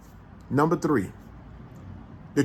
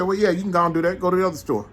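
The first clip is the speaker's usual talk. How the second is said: a careless, couldn't-care-less "Go to the other store."; dismissive reply; 4 semitones higher, faster than usual. Retold or imitated. Clerk telling a customer to shop elsewhere, dismissive. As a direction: brush the customer off. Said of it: "He said it just like that".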